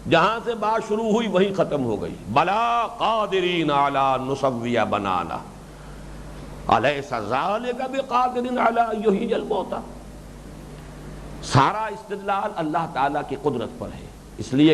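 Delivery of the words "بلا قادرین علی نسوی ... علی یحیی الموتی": slow recitation with long drawn vowels; measured scriptural chant; Quran recitation. Real, not acted. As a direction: recite the Arabic verses, stretching each long vowel.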